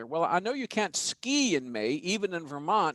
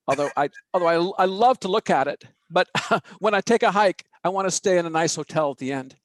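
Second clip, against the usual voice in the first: chuckling, louder, words bubbling with laughter; laughing through the words; 6 dB louder than usual. Real, not acted. Host tickled by his own Woody Allen joke, laughing. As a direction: laugh while delivering the punchline.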